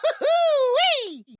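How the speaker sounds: a slow, sky-high whoop of delight; gleeful whoop. Acted. Max thrilled by a new toy, whooping. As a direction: let it rip like a kid on a rollercoaster.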